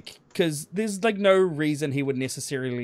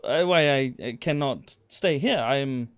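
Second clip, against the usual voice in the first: put-on broken German accent; 3 dB louder than usual. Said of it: "playing on the I don't understand English".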